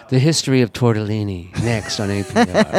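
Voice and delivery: a hint of hushed radio announcer; NPR announcer. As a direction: lightly parody a public-radio host teasing the next segment. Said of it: "N P R also does shows about".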